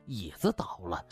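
ordinary delivery

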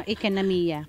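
IKANAMIYA with English-style vowels; affected English accent. Real, not acted. Singer naming her song's audience, affected English accent. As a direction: say IKANAMIYA in an Americanized Taglish accent. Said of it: "Ang arts, ekonomiya".

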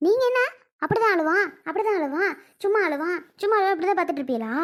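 indignant mimicking, opening high; scornful echo. The speaker mocks relatives for letting the baby cry, scornfully echoing. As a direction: parrot their excuse with irritated rising questions.

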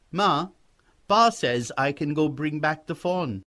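put-on a boy hopefully passing on permission; eager young boy.

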